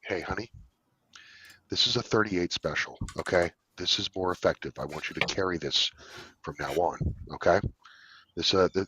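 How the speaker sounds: quiet, reassuring dad voice; soft fatherly advice. Retold or imitated. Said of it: "I'd be like".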